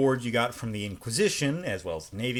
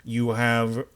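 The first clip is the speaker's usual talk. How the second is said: interrogator's voice; slower than usual. Acted. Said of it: "I'm talking in the interrogator's voice".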